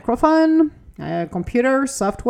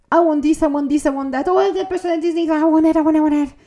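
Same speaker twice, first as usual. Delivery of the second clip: higher, eager, grabby I want it voice; greedy wanting; 4 semitones higher, faster than usual. Retold or imitated. The speaker mimics a restless person demanding everything, eager and grabby. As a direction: whine it like a kid reaching for everything.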